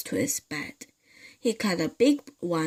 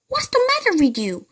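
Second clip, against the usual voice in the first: much higher, louder, quick innocent voice; mock concern; 14 semitones higher, 6 dB louder, faster than usual. Mr Twit faking concern to his screaming wife. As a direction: play innocent with a fake-worried squeak. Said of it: "Mister Twit said".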